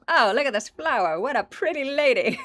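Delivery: high, loud, gushing put-on voice of an old gardener; imitating Italian gardener. Italian gardener naming the belladonna flower, high and loud. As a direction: gush over the flower as a smitten gardener. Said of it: "some Italian gardener was like".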